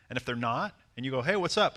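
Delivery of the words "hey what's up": higher, louder easy greeting; friendly, casual. Shown as a demonstration. Man greets a woman who seems unfriendly, casual friendly. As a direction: greet her lightly, no agenda. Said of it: "you're friendly and just casual about it".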